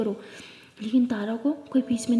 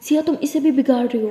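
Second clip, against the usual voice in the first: raised, higher scolding voice; aunt scolding the girls, raised and sharp; 4 semitones higher, 4 dB louder than usual. Acted. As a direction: tell them off like a stern aunt.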